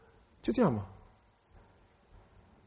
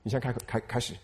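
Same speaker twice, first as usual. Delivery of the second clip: much softer and lower, coaxing; soft voice of the Lord; 5 semitones lower, 8 dB quieter than usual. Retold or imitated. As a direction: gently urge him to just start. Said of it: "主说". (主温柔地轻声鼓励)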